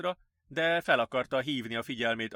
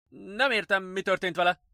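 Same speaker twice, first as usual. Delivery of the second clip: higher-pitched bewildered question; puzzled; 8 semitones higher, 4 dB louder than usual. A narrator's reading. Nurse asking what happened to the patient, puzzled. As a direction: ask it in real puzzlement. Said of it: "értetlenül rázta a fejét".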